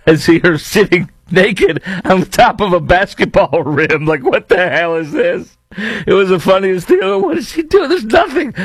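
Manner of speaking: high laughing disbelief at the ad. Real, not acted. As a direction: crack up while describing it. Mocking the absurd ad.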